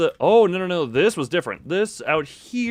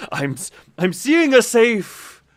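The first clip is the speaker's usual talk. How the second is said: excited realization; 7 semitones higher, 5 dB louder, slower than usual. Real, not acted. Suddenly remembers the safe.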